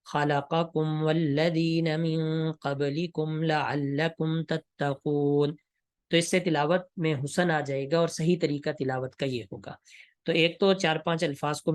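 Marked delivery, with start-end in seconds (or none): 0.0-5.5 recited, joining words back; Quran recitation demo. Shown as a demonstration. Tutor showing students how to join words in recitation. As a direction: tutor reciting the verse in tajweed style. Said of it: "پیچھے سے ملا کر پڑھیں گے".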